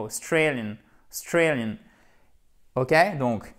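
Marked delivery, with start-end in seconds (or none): 0.0-1.7 "Australian" said almost as "Strailian"; swallowed first syllable. Shown as a demonstration. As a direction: barely sound the Au of "Australian", stress STRAY. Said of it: "on n'entend presque pas, en fait, la première partie du mot". (« Australian » avec le début presque muet)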